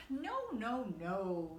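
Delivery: a touch of gentle kindly Santa. Acted. Santa reassuring the worried animals, mildly kindly. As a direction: soothe them lightly, like a kind old man. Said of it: "said Santa in a kindly voice".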